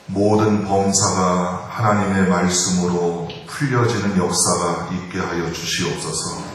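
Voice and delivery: measured, even-toned public prayer; pastoral prayer. Real, not acted. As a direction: pray formally in steady, level phrases. Leads an opening prayer. (차분하게 기도하는 어조)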